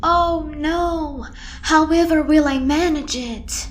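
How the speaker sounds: sarcastic alarm. Acted. Answers a dare sarcastically.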